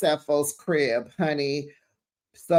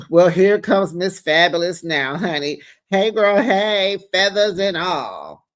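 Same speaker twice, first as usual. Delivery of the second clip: grand mock entrance; 5 dB louder than usual. Announcing Wendy's entrance.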